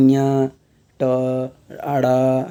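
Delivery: each sound said apart, ञा, ट, अड़ा; demonstrated nasal-group sounds. Shown as a demonstration. Teacher showing how nasal letters are spoken, sounded out separately. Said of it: "ऐसे बोला जाता है".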